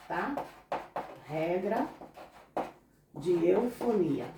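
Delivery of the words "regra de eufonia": slow, deliberate teacher dictation; slow spelled-out term. Shown as a demonstration. Teacher dictating a grammar term to students, slow and deliberate. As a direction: spell the term out slowly for copying. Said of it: "Isso se chama regra de eufonia".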